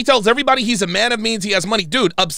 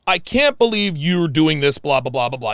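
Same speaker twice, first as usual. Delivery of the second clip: mock whiny critic; 4 semitones lower than usual. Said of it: "people who comment on what just happened".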